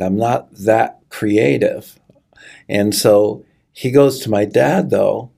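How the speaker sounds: whispered, breaking with emotion; choking up. Real, not acted. Telling the host about meeting Jesus, near tears and whispering. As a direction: barely get the words out, moved. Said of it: "I can't tell a story without choking up".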